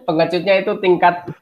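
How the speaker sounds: real laughter breaking into the words; high-pitched, laugh through the words. Real, not acted. Co-host mocking Usopp's cowardice, laughing as he talks.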